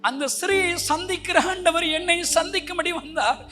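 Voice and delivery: high, loud confession shouted out; full-force testimony. Acted. Preacher confessing to the church how he denied Jesus, shouting high. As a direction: cry out your past sins.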